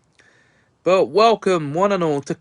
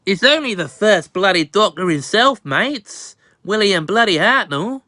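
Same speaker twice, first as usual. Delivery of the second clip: a lightly put-on, bad Australian accent; hammed-up mock Australian with bloody and mates; bad fake Aussie accent. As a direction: fake an Australian accent, not too well. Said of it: "probably the worst fake Aussie accent".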